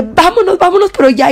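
high, rushed, frightened urging; urgent and fast. Retold or imitated. Terrified girl urging her sister to drive off fast. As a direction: beg her to leave right now. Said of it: "pero rápido".

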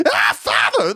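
a hammed-up cry to the heavens; mock preacher scream. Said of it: "they start screaming".

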